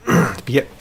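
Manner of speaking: talking through hiccups; hiccupy, interrupted speech. Real, not acted. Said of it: "now I got the hiccups".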